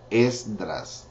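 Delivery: Esdras said again slowly and clearly; teacher repeats hard word; careful repeat. Shown as a demonstration. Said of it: "That's kinda hard".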